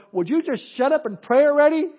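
loud and high, fed up and urging; exasperated angel yelling down from heaven; impatient angels shouting. Retold or imitated. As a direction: shout at them to just pray. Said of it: "the angels up in heaven going".

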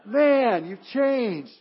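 loud, laughing surprise at a friend; amazed greeting. Pretend. Pastor imagining the congregation meeting him in heaven, laughing in surprise. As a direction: act stunned seeing him changed. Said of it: "and you go".

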